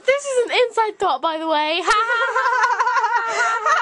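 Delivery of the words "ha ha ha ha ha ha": forced laugh. Pretend. Covering an inside thought about his brother, forced laughing. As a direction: laugh in separate, deliberate ha-has.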